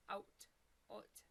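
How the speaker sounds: short demo of a Canadian "Out"; Canadian accent. Shown as a demonstration. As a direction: try "Out" with a Canadian vowel. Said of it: "The Canadian out?".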